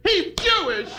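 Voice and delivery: high mock old-lady exclamation; old lady's outcry. Joking about an old lady in the rally crowd, high mock shout. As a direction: cry it out like a startled old woman. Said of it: "the old lady went".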